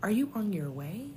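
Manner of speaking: asking her late period where it is, mock angry. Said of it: "the next minute I'm angry".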